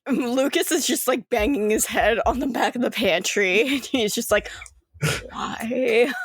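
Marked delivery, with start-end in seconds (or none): 5.3-6.1 mock-anguished, drawn-out why; a light whine of exasperation; despairing. Character bangs head in despair.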